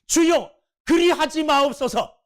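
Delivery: 책망하는 말투로; rebuking tone. Retold or imitated. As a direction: scold him with a lifted voice. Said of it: "책망하는 어투로".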